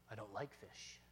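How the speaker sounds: low, quiet grumble as the neighbor; imitated grouchy neighbor; grumpy neighbor. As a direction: answer the kids low and dismissive. Neighbor's grumpy answer, voiced.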